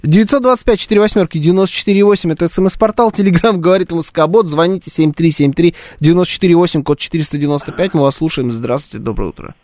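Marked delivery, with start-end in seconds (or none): 0.0-8.5 brisk on-air contact read; radio announcer read. Acted. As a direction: rattle off the numbers like a host.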